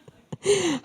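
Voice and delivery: slow, laughing agreement. Real, not acted. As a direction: chuckle through the words.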